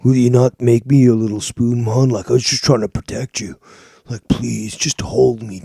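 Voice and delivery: loud, far-off mock pleading voice; mocking translation. Mocking his rival by voicing him begging to be held. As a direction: ham up a needy plea to be held. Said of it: "that is the translation of what he's saying right now".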